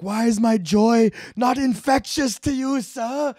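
high, prissy mock offence; fake-wounded politeness at the heckler; mock-polite jab. Comedian mocking the unlaughing heckler, high mock-polite voice.

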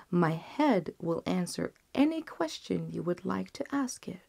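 lightly voiced, composed last wish; calm physician. Condemned physician's last request.

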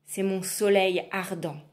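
slow, weighty reveal; lightly voiced witch; slow witch answer. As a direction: savour the answer.

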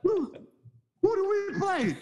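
high, stammering panicked question; mock panic. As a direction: squeak it out in comic dread. Peak panic in retold story.

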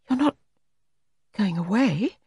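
a touch of rising alarm. A narrator's reading. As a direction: sound alarmed at the news. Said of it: "There was alarm in her voice".

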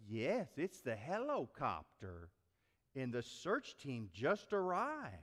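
put-on slow, measured child on the phone; little boy. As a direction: imitate a small boy calmly reporting. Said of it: "the small little voice whispered".

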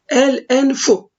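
"El enfu" with the L clearly sounded; el pronounced fully. Shown as a demonstration. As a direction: keep the L of "El" before "enfu". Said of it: "normal olarak okunuyor".

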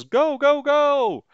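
high, loud urgent command; commander's order. Acted. Commander sends waiting pilots to attack, acted high shout. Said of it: "till the commander says".

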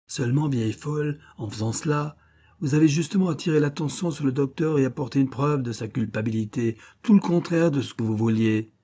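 contemptuous. Acted. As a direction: talk down to the old fool. Schiller insults her.

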